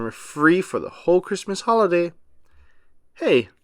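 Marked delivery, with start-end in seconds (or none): 3.1-3.5 high, excited cry; children spotting the snow, excited high cry. A narrator's reading. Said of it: "cried the children".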